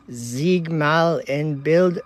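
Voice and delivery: "Ziegmal en Bild" spelled out slowly, word by word; careful foreign read. Shown as a demonstration. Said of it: "I can't say it".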